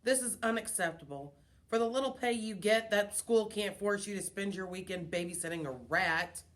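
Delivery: scornful, contemptuous sneer. Acted. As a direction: sneer it with disdain. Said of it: "Mister Brisbane sneered".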